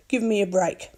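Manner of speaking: ordinary delivery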